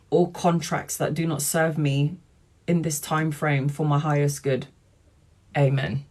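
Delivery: measured, solemn prayer recitation. Shown as a demonstration. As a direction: intone it like a prayer. Recites a cord-cutting prayer.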